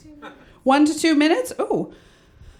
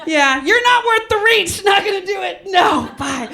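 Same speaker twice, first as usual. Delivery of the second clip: blunt brush-off; 8 semitones higher than usual. Retold or imitated. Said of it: "And she'll be like".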